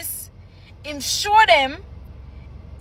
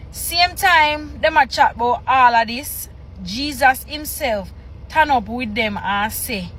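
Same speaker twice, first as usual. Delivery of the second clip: reading patois scripture. Shown as a demonstration. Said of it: "I'm gonna read one verse".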